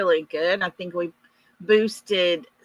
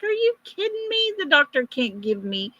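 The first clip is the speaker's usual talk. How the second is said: incredulous; faster than usual. Retold or imitated. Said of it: "And I was like".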